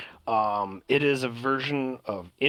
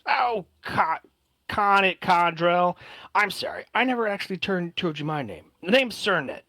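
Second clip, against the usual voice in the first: eager elf intro; 6 semitones higher than usual. Acted.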